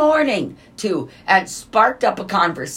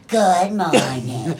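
mock greeting; slower than usual. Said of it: "that's how I hear it".

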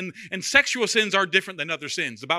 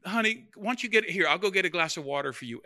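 soothing wife; 6 dB quieter, faster than usual. Retold or imitated. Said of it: "she'll be like".

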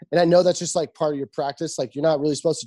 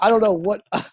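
laughing; 3 semitones higher, 4 dB louder than usual. Real, not acted. Laughing while ribbing his friend.

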